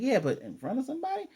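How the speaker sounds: high, fast flustered protest; a hurried, high-pitched protest. Retold or imitated. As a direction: blurt it out, embarrassed. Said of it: "She's like".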